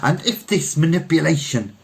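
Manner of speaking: lightly voiced Frenchman holding forth; French poet orator. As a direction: declaim to the crowd. Frenchman resumes speech.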